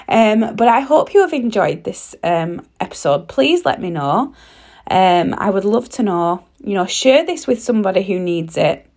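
hoarse, croaky voice. Real, not acted. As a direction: speak through a sore, croaky throat. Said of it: "my croaky voice".

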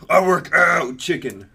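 slow, loud mascot chicken voice; exaggerated blustering rooster; cartoon rooster. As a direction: put on a swole cartoon chicken. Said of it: "just like a Bralagas, just like".

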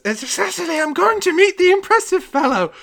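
put-on high, loud old man's voice; excited old man. Old man telling his wife proudly. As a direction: tell her proudly. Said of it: "and he says".

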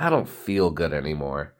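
veel zachter, slap en ziek klinkend; feeble sickly voice. Retold or imitated. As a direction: zwakjes en zielig gezegd. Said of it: "I'm like".

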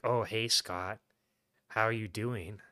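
lightly imitated fake sexy voice; overly dramatic actress. Ex greeting Scott, mock dramatic fake sexy voice. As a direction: put on a hint of drawn-out movie-vamp allure. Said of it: "overly dramatic in the film".

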